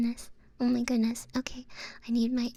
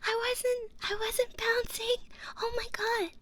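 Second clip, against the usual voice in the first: high-pitched startled squealing; real flustered shock; 9 semitones higher than usual. Real, not acted. Streamer caught off guard by a sudden raid, flustered and squealing.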